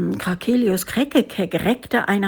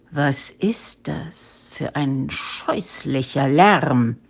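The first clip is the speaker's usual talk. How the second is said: slow, low whispery snarl; menacing big-cat voice, drawn out; hissing tigress; 6 semitones lower, slower than usual. A narrator's reading. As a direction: hiss it slowly as an angry tigress. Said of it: "fauchte Frau Misimissa Pfotenpuff".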